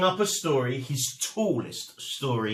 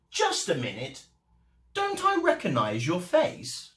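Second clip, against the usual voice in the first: plaice voice; 3 semitones higher than usual. Acted.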